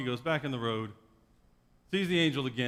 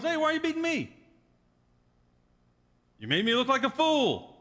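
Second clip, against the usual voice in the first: talking donkey; 11 semitones higher, 3 dB louder than usual. Acted. Donkey complains to Balaam.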